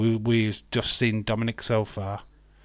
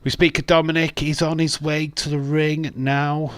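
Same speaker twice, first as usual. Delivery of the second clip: loud, raised commentary voice; ring-entrance announcing; 5 semitones higher, 5 dB louder than usual. Real, not acted. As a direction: announce the wrestler's arrival, pitched up and projected.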